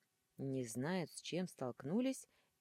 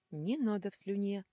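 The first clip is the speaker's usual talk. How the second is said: higher, louder panicked squeal; squealing plea; 5 semitones higher, 5 dB louder than usual. Acted. Angel and demon begging the heroine, high loud squeal. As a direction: shriek it in a panic. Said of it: "в голос заверещали ангел и демон".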